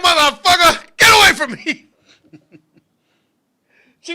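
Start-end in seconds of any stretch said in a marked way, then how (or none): 0.0-1.9 higher-pitched mock outrage; retold angry rebuff. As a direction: imitate her pushing him away. Retold girl rejecting him.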